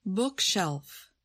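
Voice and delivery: "Bookshelf" with BOOK strong, shelf falling away; stress on first word. Shown as a demonstration. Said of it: "stress the first word in a compound".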